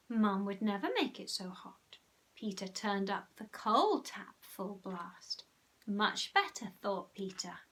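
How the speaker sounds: lively storybook reading; story narration. A narrator's reading. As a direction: read it like a bedtime story. Reads story to children.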